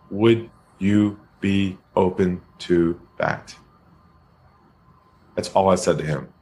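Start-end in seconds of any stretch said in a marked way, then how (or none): 0.1-3.6 slow, unhurried and calm; calm low voice. Retold or imitated. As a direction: ask it slowly, with no pressure at all. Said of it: "lowered my voice".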